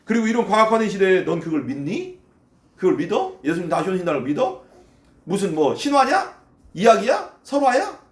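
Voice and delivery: incredulous mocking questions; sarcastic disbelief; sneering. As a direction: taunt the believer, pitch rising question by question. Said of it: "막 비아냥거려".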